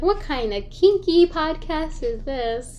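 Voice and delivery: shocked employer voice. Retold or imitated. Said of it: "Then be like".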